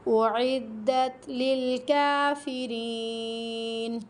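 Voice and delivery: slow melodic chanted recitation; Quran recitation. Acted. Teacher reciting the verse to her students, melodic chant. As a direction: chant the verse in measured tajweed.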